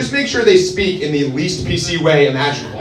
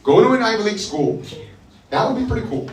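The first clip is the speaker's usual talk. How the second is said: mock tutor voice; 5 semitones higher, 4 dB quieter than usual. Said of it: "I'll be like".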